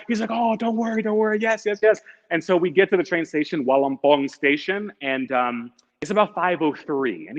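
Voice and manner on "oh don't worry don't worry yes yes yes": high, breezy don't worry; breezy driver. Retold or imitated. Tuk-tuk driver reassuring late passenger, high and breezy. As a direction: imitate a carefree driver.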